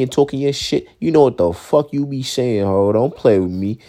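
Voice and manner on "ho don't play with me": normal talking voice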